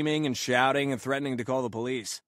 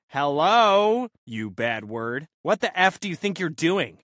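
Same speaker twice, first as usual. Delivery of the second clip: imitating a scream; 3 semitones higher, 6 dB louder, slower than usual. Woman screaming at the narrator by the car, a mock scream. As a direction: shriek it like the Karen did. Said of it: "she starts screaming at me".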